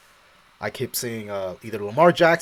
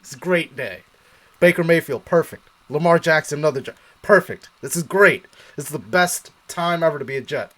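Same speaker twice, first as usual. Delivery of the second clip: building up to loud, happy cheering; hyping yourself up over the picks; gleeful excitement; 6 dB louder than usual. Retold or imitated. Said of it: "I'm like".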